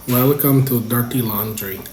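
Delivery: slow mock Filipino accent; sotaque filipino. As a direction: try the greeting in a Filipino accent. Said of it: "How would a Filipino say it?".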